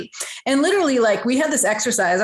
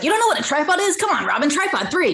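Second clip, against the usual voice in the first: higher-pitched mock motherly disbelief; incredulous mom; 7 semitones higher than usual. Mom to ten-year-old who failed the tripod question, incredulous. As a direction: imitate a mom who can't believe it. Retold mother scolding her child.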